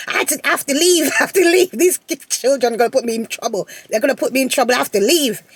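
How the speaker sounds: mock-dramatic pleading to leave; over-exaggerated. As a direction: overplay the desperate mum. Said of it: "over exaggerated".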